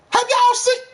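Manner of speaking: very high excited cry; hyped. Real, not acted. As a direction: shout it up high, worked up. Hyping Nick Chubb.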